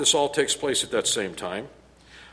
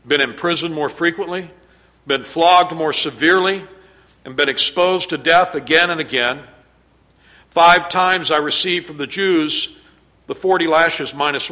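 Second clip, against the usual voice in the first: louder, building list of hardships, proclaimed; preaching scripture; 5 dB louder than usual. Acted. Preacher reading Paul's sufferings to the church, at full force. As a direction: pound out each hardship for the congregation.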